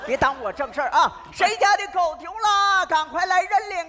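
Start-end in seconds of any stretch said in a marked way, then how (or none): 1.3-3.9 calling out. Acted. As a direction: call out across the courtyard. Calling out to neighbors.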